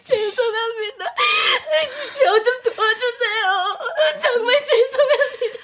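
weepy pleading; tearful apology. Acted. Employee begs the family for help, crying. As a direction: still crying while she begs. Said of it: "왜 네가 울어요".

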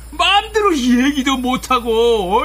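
slow, tearful complaint; words dragged out near crying; choked lament. Acted. Husband laments his life. (울먹이며 천천히 한탄하는 말투)

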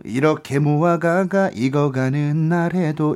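flat, like reading a textbook aloud. Shown as a demonstration. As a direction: read it like a schoolbook. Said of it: "국어책 읽는 느낌이 들어요".

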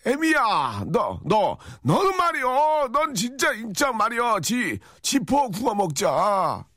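put-on high, slow, shouted old mother-in-law; hammed-up screeching mother-in-law; shouting mother-in-law. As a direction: drag it out and yell at the daughter-in-law.

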